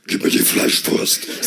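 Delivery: slow whispered demand; creepy slow kid voice; slow eerie child whisper; son's demand. Retold or imitated. Son demands sausage.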